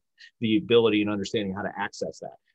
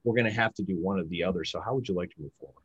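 empathetic; 3 semitones lower than usual. Shown as a demonstration. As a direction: soften it, talk low with empathy. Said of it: "I was speaking with more empathy".

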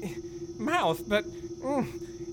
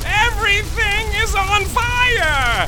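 higher, slow alarmed shout; 6 semitones higher, 4 dB louder, slower than usual. Acted. Engineer shouting to pilot that everything burns. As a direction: call out the fire in panic. Ship bay burning.

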